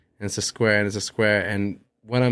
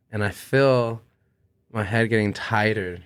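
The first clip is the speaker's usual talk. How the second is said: ordinary talk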